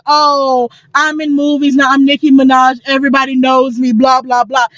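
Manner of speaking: mildly mocking self-important star; putting on airs, a rapper. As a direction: imitate a celebrity who thinks she has made it. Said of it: "That's the kind of air she puts on".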